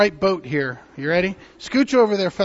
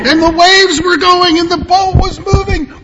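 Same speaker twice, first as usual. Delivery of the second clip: loud, higher, rousing narration; dramatic storytelling; 9 semitones higher, 10 dB louder than usual. Acted. Telling children the storm story, loud and dramatic. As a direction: make the storm sound big and wild.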